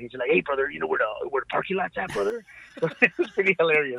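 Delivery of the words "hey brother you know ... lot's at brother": put-on wrestler promo voice. Retelling running into a wrestler on a casino floor, Macho Man impression. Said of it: "all Macho Man".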